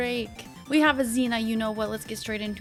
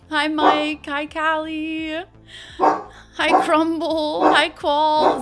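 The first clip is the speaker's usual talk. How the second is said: laughing greeting; 4 semitones higher, 8 dB louder, much slower than usual. Real, not acted.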